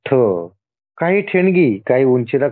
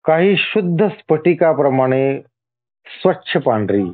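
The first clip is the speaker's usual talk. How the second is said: deliberate list, a pause after each item; measured scripture reading. Acted. God listing his many forms to the devotee, measured reading. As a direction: read it out phrase by phrase.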